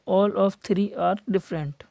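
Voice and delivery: very slow, each word pressed out; slow emphasis. Shown as a demonstration. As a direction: lay out the rule slowly. Stressing a rule. (धीरे-धीरे ज़ोर देकर)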